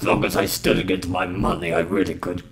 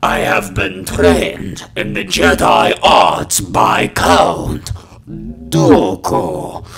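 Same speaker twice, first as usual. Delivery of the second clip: loud raspy smoker's shout, very slow end; smoker's rasp; 4 dB louder, slower than usual. Acted. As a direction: rasp it out, stretching the name. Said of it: "really starts tearing at your throat".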